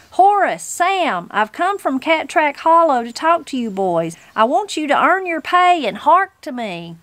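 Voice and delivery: high, insistent granny demanding attention; calling out insistently. Acted. Granny demands the judges listen, calling out insistently. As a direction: call the names high, then press the demand.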